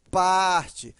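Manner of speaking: "parte" with PAR held long; drawn-out PAR in "parte", light ending; stress on PAR. Shown as a demonstration. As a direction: stretch and stress the first syllable of "parte". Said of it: "a sílaba mais forte é o par".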